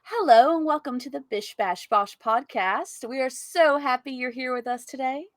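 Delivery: lightly put-on announcer greeting. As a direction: welcome the listeners like a show announcer. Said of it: "sound like one of those announcers".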